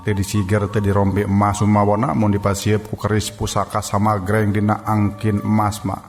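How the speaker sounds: plain reading voice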